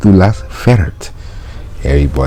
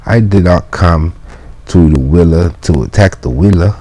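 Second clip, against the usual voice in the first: high, raised voice pleading his case; mailman protesting; 5 semitones higher than usual. Acted. Mailman protesting to the janitor. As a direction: insist you're no enemy.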